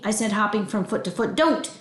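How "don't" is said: put-on high, sudden child's protest; pleading cry. Child begging grandma not to force him in, pleading. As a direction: cry out to stop her.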